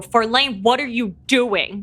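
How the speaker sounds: hostile, aggressive, challenging, confrontational delivery. A character confronts Farlane while an ally handles the crowd, as aggressive as possible. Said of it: "as aggressive of a voice as I can".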